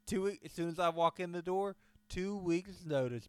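high, loud mock bragging; mock brash announcement. Acting out quitting on social media, brash and loud. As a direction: announce quitting loudly for all to hear.

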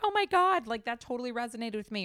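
high, gushing listener voice; gushing fan. Retold or imitated. Host mimicking a listener's gushing message, high and excited. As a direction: squeal it like a thrilled fan. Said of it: "and you say".

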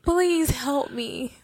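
slow, close-mic mock plea; drawn-out plea right into the mic; leaning into the mic. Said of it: "Why you make that face when you lean into the microphone".

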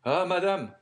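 high, loud exclamation; startled gentleman calling out; alarmed cry. A narrator's reading. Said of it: "cried Debray".

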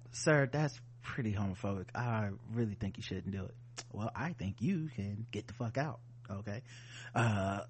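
flat, quiet operating-room voice; deadpan surgeon calmly asking for tools. Pretend.

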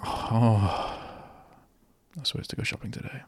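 quick, hushed whisper of a forgotten errand; a fast, breathy aside under your breath; mock whisper. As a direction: whisper it to yourself like you just remembered. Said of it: "I don't go".

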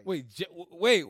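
normal talking voice

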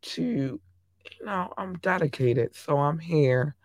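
hoarse, strained voice; voice giving out. Real, not acted. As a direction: push through a hoarse voice. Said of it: "And I'm hoarse".

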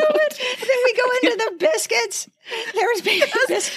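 a goofy ad-reader voice, half laughing; silly voice. Acted. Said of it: "Why'd you doing that voice?".

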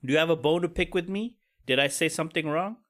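a hint of an inviting leader; good leader. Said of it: "A good leader goes".

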